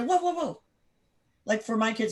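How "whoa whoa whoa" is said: calling a halt. Shown as a demonstration. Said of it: "then you have to say".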